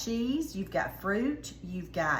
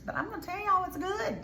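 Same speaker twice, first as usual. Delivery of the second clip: insisting it's good; 10 semitones higher than usual. Real, not acted. Insisting pears and mayo work.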